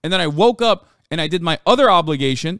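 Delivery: exasperated shouting at chat; real anger. Real, not acted. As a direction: yell it out, truly fed up. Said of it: "And I'm mad".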